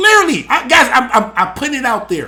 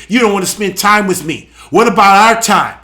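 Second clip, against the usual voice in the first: mock complaining; 4 semitones lower, 3 dB louder than usual. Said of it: "Instead of complaining".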